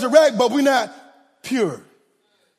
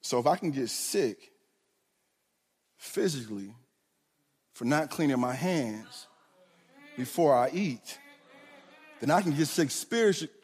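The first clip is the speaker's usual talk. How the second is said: much lower and softer, letting it sink in; dropped to a hush; 10 semitones lower, 10 dB quieter than usual. Real, not acted. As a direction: lean in and say it low and soft, like a secret. Drops voice for emphasis.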